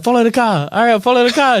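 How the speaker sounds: a hammed-up action-movie partner yelling follow the car; mock movie cop. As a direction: bark it like a frantic movie cop. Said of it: "and he's like".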